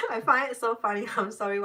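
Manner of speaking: laughing while talking; giggling, can't stop; speaking through real laughter. Real, not acted. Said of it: "I keep laughing".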